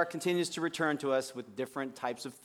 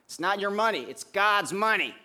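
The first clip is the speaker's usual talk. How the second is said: Gene's odd voice; 4 semitones higher, 5 dB louder than usual. Retold or imitated. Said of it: "not a total faithful picture of his voice".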